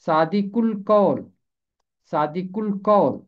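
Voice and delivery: सादिकुल कौल split as सादि-कुल कौल, the क joined to ल; teacher shows where सादिकुल कौल breaks; model pronunciation. Shown as a demonstration. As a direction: keep the क of सादिकुल off the first part. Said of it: "काफ को कभी भी पिछले हिस्से के साथ नहीं मिलाना".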